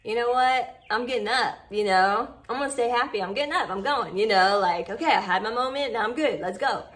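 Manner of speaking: rally yourself to get up and go; mock-pumped self talk; pep talk to self. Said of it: "then it's like".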